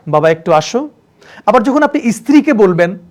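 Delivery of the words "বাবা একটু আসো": fond call to son. Shown as a demonstration. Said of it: "person ভেদে আপনার tone change".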